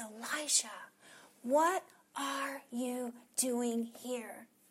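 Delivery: small, still, unforced voice. Retelling how god asks elijah a question, in a still small voice. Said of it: "in that still small voice".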